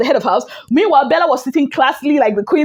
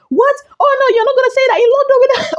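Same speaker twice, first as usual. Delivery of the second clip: much higher, fast put-on voice for Shek; imitating Shek; 11 semitones higher, faster than usual. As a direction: squeak it out fast as the outraged housemate. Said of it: "he was like".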